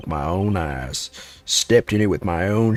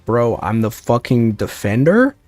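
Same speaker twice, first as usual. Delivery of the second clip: indignant outburst; 3 semitones higher, 6 dB louder than usual. Real, not acted.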